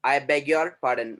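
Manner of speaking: "I beg your pardon" said very slowly; slow model phrase. Shown as a demonstration. Teacher models the phrase for students. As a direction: spell out each word slowly for learners. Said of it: "Or you can say".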